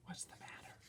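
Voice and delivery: soft unvoiced whisper. A narrator's reading. Neighbour whispering to the boy in the elevator. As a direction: whisper so no one hears. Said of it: "she whispered".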